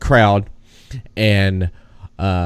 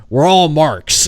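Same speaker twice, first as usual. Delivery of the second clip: 1 Savage line; 7 semitones higher, 4 dB louder, slower than usual. Retold or imitated. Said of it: "he said".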